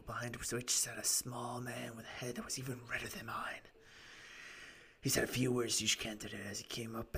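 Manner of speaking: lightly rasped storytelling client; raspy voice. Acted. Client telling gentlemen his story, lightly raspy voice. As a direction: recount it with a hint of rasp. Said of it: "doing this raspy voice for him".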